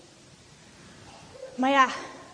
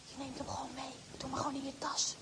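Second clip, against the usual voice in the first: softer, sly coaxing voice; tempting inner voice; 3 semitones lower, 13 dB quieter, faster than usual. Acted. The little voice urging theft, soft sly coaxing. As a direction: urge her quietly to take it. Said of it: "dat stemmetje zegt".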